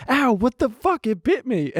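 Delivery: high startled ow, then it bit me; pained yelp. Retold or imitated. Bitten by a dog in Home Depot, startled high yelp. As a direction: yelp like you were just nipped.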